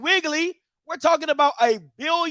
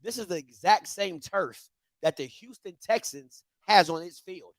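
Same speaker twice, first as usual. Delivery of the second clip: much softer and lower, holding back a yell; quiet restraint; 9 semitones lower, 5 dB quieter than usual. Real, not acted. Calm, quiet point to viewers about the identical turf. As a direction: keep it down on purpose, calm but pointed. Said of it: "I'm not even gonna yell".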